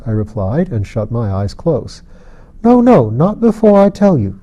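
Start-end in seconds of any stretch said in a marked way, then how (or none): 2.6-4.4 put-on high, louder child's cry, urgent; a little girl blurts it out to stop him; child's eager cry. A narrator's reading. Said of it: "she cried".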